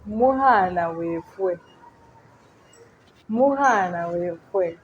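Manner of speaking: drawn-out teaching demonstration; slow model pronunciation. Shown as a demonstration. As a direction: say it slowly for learners to copy. Teacher models new phrase for learners.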